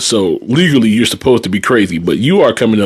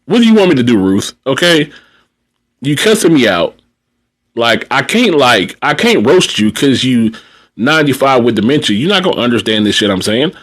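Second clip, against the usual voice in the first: higher, pleading what do you want me to do; exasperated plea; 3 semitones higher than usual. Retold or imitated. Caregiver pleads with a cussing resident, exasperated and higher. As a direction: throw up your hands at the resident. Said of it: "And you just sitting there like".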